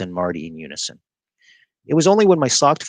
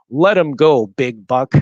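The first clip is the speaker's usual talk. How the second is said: a sudden burst of courage, louder; blurted; 4 semitones higher, 7 dB louder, slower than usual. A narrator's reading. Boy suddenly blurts a louder order at the giant bully. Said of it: "I blurted".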